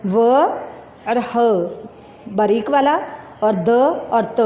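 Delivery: व, ह, द, त named one by one; naming the letters for the class; spelling out letters. Shown as a demonstration. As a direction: spell वाहदत aloud letter by letter. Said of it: "वाहदत".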